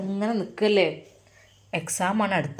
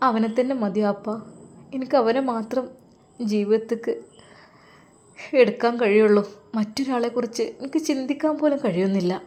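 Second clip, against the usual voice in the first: tearful plea; 4 semitones higher than usual. Acted. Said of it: "അവളുടെ കണ്ണുകൾ നിറഞ്ഞൊഴുകി".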